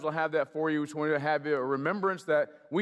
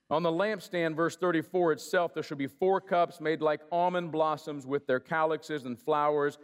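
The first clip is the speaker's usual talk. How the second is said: measured scripture read, each item set apart. Acted. Pastor reading Exodus aloud to the congregation, steady and measured. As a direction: read it like the word of the Lord.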